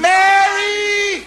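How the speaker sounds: very high, loud holler; exasperated shout. Acted. Husband interrupting wife's complaints, exasperated shout. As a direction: yell to stop the scolding. Husband cuts off scolding wife.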